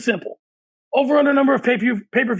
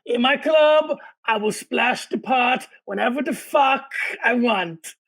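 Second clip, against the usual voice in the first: hammed-up movie villain; slower than usual. Quoting Rounders villain line.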